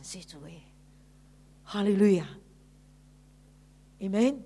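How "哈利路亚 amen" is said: loud, ringing hallelujah and amen; praise shout. Real, not acted. Preacher shouting praise to the congregation, loud and ringing. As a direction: proclaim it to the whole church.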